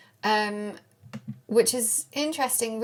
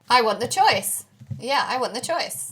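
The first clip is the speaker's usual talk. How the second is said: loud, emphatic insistence, easing on the repeat; emphatic demand; 8 dB louder, slower than usual. Acted. Manifestor insisting on being given options, loud and emphatic. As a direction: insist on it, punching the first time loudest. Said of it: "you're like".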